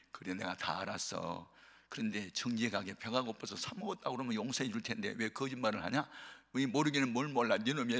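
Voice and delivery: a mother speaking gently to her repentant son; tender mother. Retold or imitated. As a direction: forgive him quietly, through tears. Mother tearfully forgiving.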